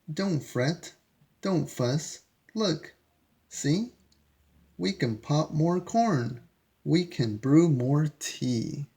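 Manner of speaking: a hint of a little mouse comforting the bear. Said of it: "Mouse squeaks".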